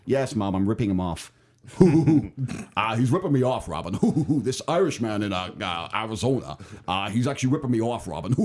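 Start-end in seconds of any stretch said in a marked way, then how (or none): 2.8-8.3 mock Irishman accent. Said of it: "That wasn't too bad".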